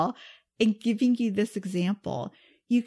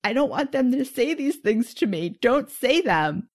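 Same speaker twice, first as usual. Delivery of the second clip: resistant, pushing back; 2 semitones higher, 4 dB louder than usual. Retold or imitated. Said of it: "if I go in with this energy of".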